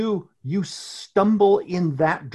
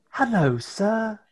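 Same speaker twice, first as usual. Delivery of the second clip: polite little intern, sweetly needling; lightly voiced tiny intern; 3 semitones higher than usual.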